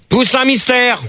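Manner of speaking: calling out. Real, not acted. Host summoning a silent caller on air, calling out. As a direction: call for someone who is not answering. Calls caller again, no answer.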